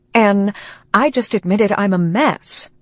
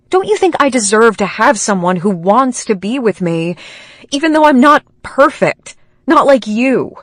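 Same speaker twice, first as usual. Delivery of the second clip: rising, louder, hurt pleading; hurt outburst building louder and higher to the end; upset outburst; 4 semitones higher, 5 dB louder than usual. Acted. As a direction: push back at her friend, voice climbing. Claire blurts out hurt pleading.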